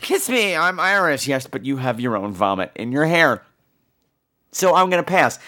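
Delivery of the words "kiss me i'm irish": mocking drunk reveler. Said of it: "gross green bitches".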